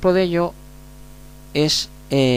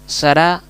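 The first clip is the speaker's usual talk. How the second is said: Sará with a louder final syllable; stress on last syllable; 3 semitones higher, 5 dB louder than usual. Shown as a demonstration. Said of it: "la segunda se acentúa más fuerte".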